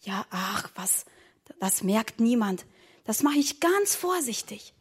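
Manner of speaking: soft, secretive dismissal of worry; hushed reassurance. Acted. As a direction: brush off the worry under your breath. Secretive reassurance after being hushed. (leise beschwichtigend)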